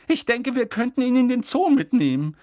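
a touch of slow aunt; slowly thinking. A narrator's reading. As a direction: weigh the idea aloud. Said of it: "sagte Tante Petunia langsam".

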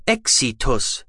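slow, mechanical verdict of death; rasping med box. A narrator's reading. The medical box declaring the patient dead, slow and mechanical. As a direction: let the machine pronounce it flatly and slowly. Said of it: "schnarrte die Medobox".

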